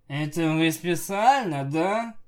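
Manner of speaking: grumpy, put-on querulous voice; cranky, accusing question; peevish. A narrator's reading. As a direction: ask it like someone rudely woken. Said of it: "сварливо спросил".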